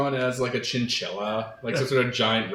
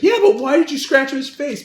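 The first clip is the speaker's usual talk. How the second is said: incredulous high question; 7 dB louder than usual. Retold or imitated. Mac asks Dennis, incredulous.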